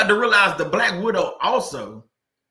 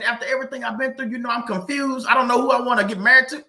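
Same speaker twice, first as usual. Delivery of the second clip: higher, fast mock of a wife playing the victim; 6 semitones higher, 3 dB louder than usual. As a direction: imitate her playing the innocent victim, a bit higher. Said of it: "she went on to play the victim".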